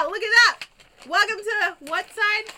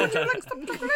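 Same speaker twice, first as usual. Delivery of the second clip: Forrest Gump voice; 8 semitones higher, faster than usual. Retold or imitated. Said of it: "It was Forrest Gump".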